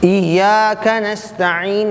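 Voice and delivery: very slow, stretched melodic chant; Quranic recitation. Shown as a demonstration. Teacher reciting the verse in class, very slow melodic chant. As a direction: draw out each word of the verse.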